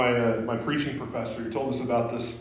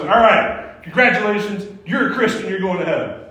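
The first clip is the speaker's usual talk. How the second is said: higher, bright hammed-up congratulations; mock cheerful; 6 semitones higher, 7 dB louder than usual. Evangelist congratulating the waiter, mock cheerful. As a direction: chirp it like a cheap prize. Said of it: "He goes".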